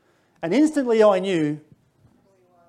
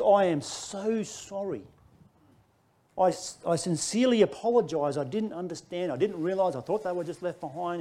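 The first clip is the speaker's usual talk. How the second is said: apology; 6 dB quieter than usual. Retold or imitated. Apologising to angry man.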